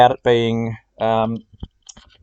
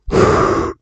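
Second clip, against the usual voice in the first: heavy breathing. Real, not acted. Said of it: "I'm doing some heavy stalker breathing".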